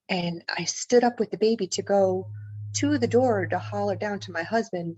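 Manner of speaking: ordinary talk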